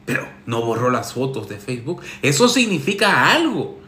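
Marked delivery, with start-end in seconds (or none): 2.2-3.8 Eso significa algo. said flat and knowing; sarcastic first take of Eso significa algo. Shown as a demonstration. Sarcastic advice columnist to Alex, knowing. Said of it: "Soy muy sarcástico".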